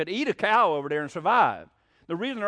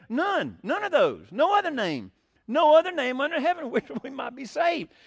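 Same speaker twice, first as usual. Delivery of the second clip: forceful preaching; 6 semitones higher, 3 dB louder than usual. Real, not acted. Preacher repeating key phrase.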